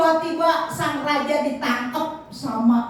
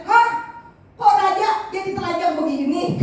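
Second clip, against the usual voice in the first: higher, shocked gasp of a question; startled; 7 semitones higher than usual. Acted. Minister sees the naked king return, startled. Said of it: "dia kaget".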